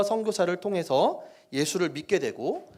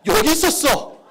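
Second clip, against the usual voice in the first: surprised; 8 semitones higher, 7 dB louder than usual. Real, not acted. Finds answer on slide.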